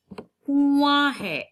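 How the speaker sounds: कुआं drawn out high and loud; stress on कुआं. Shown as a demonstration. Teacher stresses the word कुआं for the class. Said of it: "teacher stressing key word".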